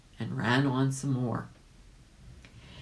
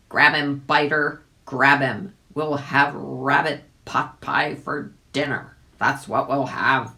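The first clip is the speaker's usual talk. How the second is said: loud gruff call to the dog; gypsy man crying out; 6 dB louder than usual. A narrator's reading. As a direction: shout the dog on. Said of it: "cried out".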